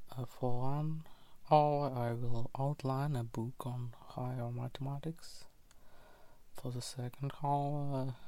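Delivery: lo-fi voice recorder sound; diary read into a dictaphone; dictaphone recording. Real, not acted. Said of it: "Recording on a voice recorder".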